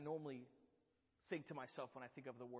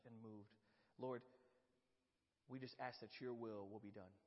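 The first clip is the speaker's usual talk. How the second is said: prayer; 4 dB quieter than usual. Real, not acted. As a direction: pray earnestly.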